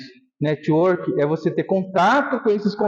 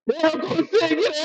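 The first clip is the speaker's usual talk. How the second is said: retold emotional cry; 9 semitones higher than usual. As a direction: relive the final line as a high, strained call. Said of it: "Deu um grito". (grito emocionado recontado, agudo e lento)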